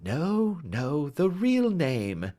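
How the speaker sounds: sweet chiding. A narrator's reading. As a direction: coax sweetly, stretching the words. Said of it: "said Holmes sweetly".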